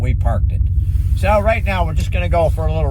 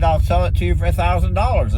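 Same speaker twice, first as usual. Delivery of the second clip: quick, higher offhand offer in his manner; a hint of the old owner's voice, quick and higher; mimicking the owner; 5 semitones higher, faster than usual. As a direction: lightly imitate the seller haggling. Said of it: "as I can mimic this guy".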